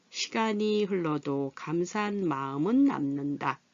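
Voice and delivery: 시간이 as "시가니", 마음은 as "마으믄"; measured read joining finals: "시가니", "마으믄", "남는다"; careful model reading with linked 시간이 and 마음은. Shown as a demonstration. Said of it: "소리는 변합니다".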